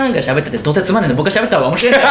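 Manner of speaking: cocky joke. Retold or imitated. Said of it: "みたいなことを、ちょっと言ったら".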